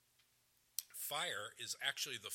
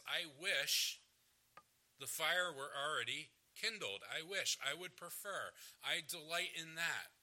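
louder, raised-pitch voicing of longing; emphatic, insistent preacher's paraphrase; fervent wish; 4 semitones higher, 4 dB louder than usual. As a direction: declare it as a heartfelt desire. Preacher voices Jesus' fervent wish.

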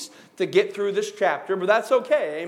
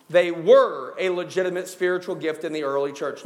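"were" leaned on, pitch kept lower; stress on "were"; 4 semitones lower than usual. Shown as a demonstration. Preacher restating the early church point, stress on "were". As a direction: repeat it with weight on "were". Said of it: "the emphasis on the word".

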